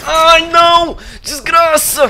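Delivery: high, loud despairing yell; anguished shout. Real, not acted. Streamer shouting in anguish at the screen. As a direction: scream at the loss.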